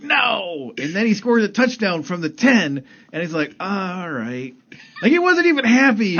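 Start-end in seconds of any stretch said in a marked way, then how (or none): 0.0-0.7 high, loud mock groan of no; fan's protest. Fan reacting to a handoff at the ten, high mock protest. 3.6-4.5 a laughing, half-hearted all right; grudging fan. Retold or imitated. Fan grudgingly accepting a rushing touchdown, laughing.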